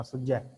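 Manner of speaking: ਸੁਝੈ with a doubled, held ਝ; read with adhak. Shown as a demonstration. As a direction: say ਸੁਝੈ as sujjhai. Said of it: "ਅਧਿਕ ਲਾ ਕੇ ਪੜ੍ਹਨਾ".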